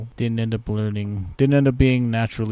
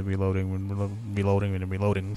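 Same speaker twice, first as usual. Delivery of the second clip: choking on words; faster than usual. Real, not acted. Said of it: "Choking on my words".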